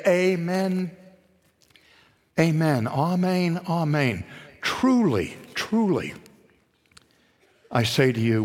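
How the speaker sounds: slow, weighty Amen, amen, amen; solemn repetition. Acted. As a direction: lean on each amen and truly. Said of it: "he would say".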